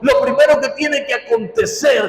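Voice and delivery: pressing, declamatory sermon delivery; emphatic preaching. Real, not acted. Preacher urging congregation to empty themselves of dishonor, emphatic preaching. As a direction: preach it with firm, punched key words.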